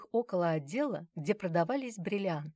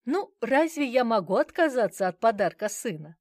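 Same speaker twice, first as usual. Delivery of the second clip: laughing; 5 semitones higher, 7 dB louder than usual. A narrator's reading. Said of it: "рассмеялась она".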